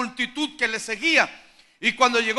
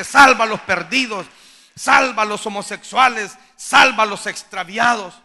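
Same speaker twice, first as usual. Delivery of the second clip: crying out in prayer; 6 dB louder than usual. Retold or imitated. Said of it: "llorando por la gente".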